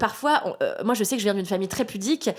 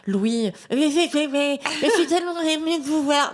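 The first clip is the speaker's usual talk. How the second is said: higher, breathless starstruck gush; gushing fan; 6 semitones higher than usual. Retold or imitated. Intern meeting her idol actor, higher starstruck gushing. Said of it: "je commence par dire".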